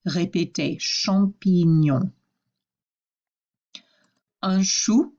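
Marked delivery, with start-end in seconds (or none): 0.8-2.1 "Champignon" with gn said as ny; drawn-out French "Champignon", ny before the last vowel. Shown as a demonstration. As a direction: slowly model "Champignon", the gn like N Y. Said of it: "G N sounds like N Y".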